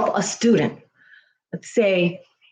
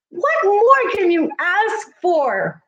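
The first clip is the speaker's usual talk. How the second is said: getting emotional; 7 semitones higher than usual. Real, not acted. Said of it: "I'm getting emotional".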